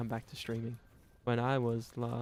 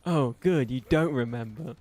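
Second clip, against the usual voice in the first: a loud, bright oh good; mocking the other voice, louder; mock cheerful other; 6 dB louder than usual. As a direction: chirp it out like a smug friend. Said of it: "I sound like a fucking idiot".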